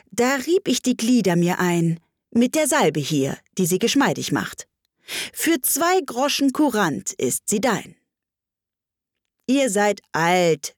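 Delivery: measured verse, lifted phrase openings; poem recitation. Acted.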